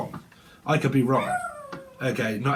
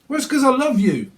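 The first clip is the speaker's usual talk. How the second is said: mock sweet excuse; 8 semitones higher, 3 dB louder than usual. Voicing partner's excuse.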